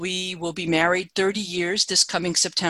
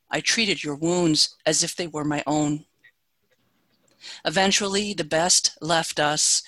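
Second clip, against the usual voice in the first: slow, intimate poetry reading; lingering pauses between phrases; confessional poet. Acted. Reads poem When We Met.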